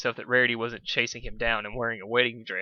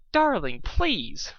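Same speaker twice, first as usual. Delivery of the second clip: dismissive; 8 semitones higher, 3 dB louder, much slower than usual. Acted. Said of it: "Rarity said passively".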